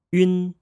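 "yun" said as one smooth syllable; Mandarin final yun. Shown as a demonstration. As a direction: model "yun" for learners. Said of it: "voice everything as one syllable".

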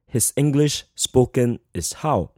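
slow, deliberate literal rendering; word-for-word literal gloss. Shown as a demonstration. Teacher showing students the literal word order, slowly. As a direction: spell out the awkward literal English, slowly. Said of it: "the question is literally asking".

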